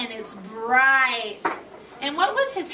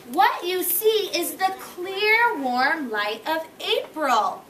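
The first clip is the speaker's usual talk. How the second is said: slow, savoring reading aloud; storybook reading; 2 semitones higher, slower than usual. A narrator's reading. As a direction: paint the spring light for the children. Reads Frog's line.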